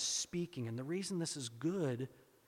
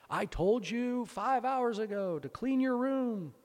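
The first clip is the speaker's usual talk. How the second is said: higher and louder, slow, nagging; exasperated mom; 8 semitones higher, 5 dB louder, slower than usual. Retold or imitated. Preacher voicing a mom scolding her child. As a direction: scold a child slowly and loudly. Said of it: "Moms, you know this".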